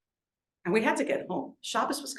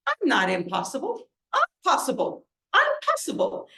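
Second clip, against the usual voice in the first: put-on playful drunk retort; 5 semitones higher than usual. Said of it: "he says".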